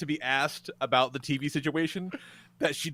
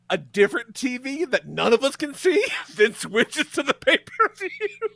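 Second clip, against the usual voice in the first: usual speaking voice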